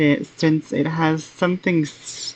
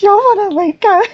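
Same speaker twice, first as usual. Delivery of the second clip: laughing; 4 dB louder, faster than usual. Real, not acted. Trying to talk through laughter.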